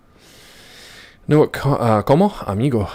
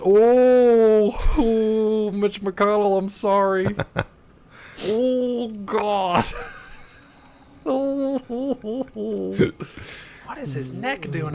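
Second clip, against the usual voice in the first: high, slow, laughing wonder; amused disbelief; 11 semitones higher, slower than usual. Real, not acted. Player mocking a character's neck while laughing, high. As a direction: marvel through giggles.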